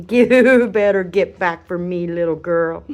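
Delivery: laughing while telling off a puppy; a laugh through a mock warning; laughing scold. Real, not acted.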